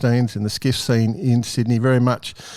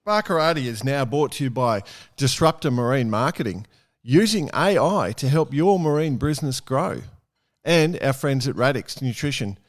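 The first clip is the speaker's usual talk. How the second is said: ad read; 4 dB quieter than usual. Acted. Sponsor read at show start.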